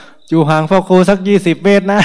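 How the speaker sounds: high, loud shout to keep people back; loud warning shout from a distance; calling out far. Retold or imitated. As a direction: call it out across twenty metres. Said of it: "ต้องตะโกนไกลๆว่า".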